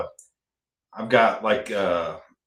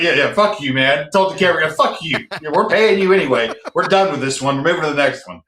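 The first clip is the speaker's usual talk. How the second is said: louder, higher, cocky "fuck you, we're paying you anyway"; brash dismissal; 5 semitones higher, 3 dB louder than usual. Retold or imitated. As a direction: brush off the camera guy with swagger. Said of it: "we're like".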